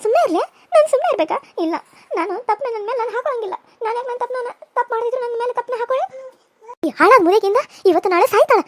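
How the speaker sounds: high, tearful wife refusing to go; distraught young wife. Acted. Young wife refusing to go inside, tearful outburst. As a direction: cry out against the blame.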